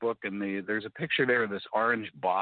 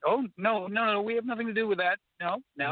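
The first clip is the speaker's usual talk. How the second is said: high-pitched, hurried disavowal; repeated high no's, mock protest; mock denial; 11 semitones higher than usual. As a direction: play an official waving it all away. Imagined officials disowning the project.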